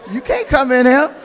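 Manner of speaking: lightly voiced bouncer turning someone away; a hint of a stern doorman. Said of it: "I'm trying to make it comical".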